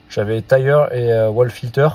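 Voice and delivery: reading the menu in a mock English accent, slowly; hammed-up English accent on the menu words. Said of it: "T'as vu un peu cet accent anglais". (accent anglais exagéré pour rire)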